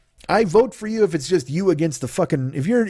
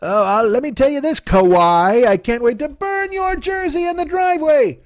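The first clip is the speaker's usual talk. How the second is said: higher, slow mock outrage of a jersey-burning fan; hammed-up whiny fan, pitched way up; angry sports fan; 9 semitones higher, slower than usual. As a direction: whine like a betrayed fan on the news. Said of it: "they're like".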